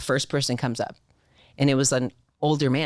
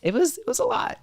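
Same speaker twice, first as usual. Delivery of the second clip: excited. Real, not acted. Asked about her big commission.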